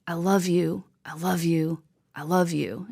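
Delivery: whispered, tender and hushed. Retold or imitated. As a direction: breathe the words like a farewell. Retold words in brother's eulogy.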